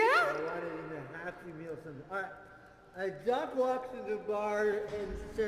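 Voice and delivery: Mister Beer voice. Acted. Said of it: "throw my voice into Mister Beer".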